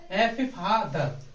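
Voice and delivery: फादर slowly, split in two parts; syllable demo. Shown as a demonstration. Teacher spelling out the two-syllable word, slow. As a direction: drag out फादर, sounding each part. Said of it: "अलग अलग sense निकला".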